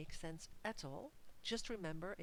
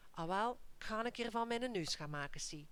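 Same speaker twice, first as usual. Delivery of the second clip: higher and louder, indignant to the teacher; march in and give her a piece of your mind; indignant parent; 4 semitones higher, 5 dB louder than usual. Acted. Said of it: "talk to the teacher and say".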